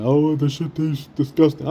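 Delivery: put-on voice of disgust; mock disgust. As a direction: fake a grossed-out reaction. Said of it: "I don't wanna lie to you and say that".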